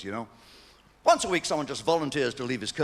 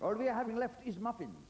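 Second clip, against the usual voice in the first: Berkshire shopkeeper; 4 semitones higher, 4 dB louder than usual. Retold or imitated. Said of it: "He said".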